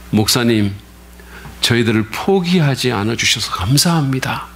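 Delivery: a touch of earnest humility; humble thanks. Retold or imitated. Young minister's humble reply. (젊은 교역자가 공손하고 진심으로 감사하듯)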